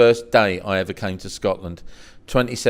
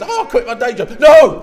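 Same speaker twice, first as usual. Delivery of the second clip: laughing mock; 11 dB louder than usual. Replaying the exchange.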